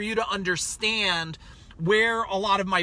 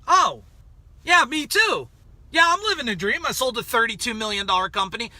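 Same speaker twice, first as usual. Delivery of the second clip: mock enthusiastic. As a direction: pump it up like you mean it. His retold upbeat reply.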